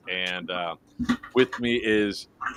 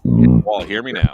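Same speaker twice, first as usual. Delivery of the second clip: shouting on bad phone line; 12 dB louder than usual. Real, not acted. Checking audio after breaking up.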